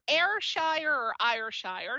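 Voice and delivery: Ayrshire said slowly in two alternative ways; two pronunciations offered. Shown as a demonstration. Host unsure of the place name, Ayrshire tried slowly two ways. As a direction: sound out Ayrshire one way, then the other. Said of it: "She will correct us".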